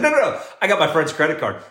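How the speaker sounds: high, eager no no no; new dad refusing. Retold or imitated. New dad turning down the drink, high and quick. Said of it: "He said".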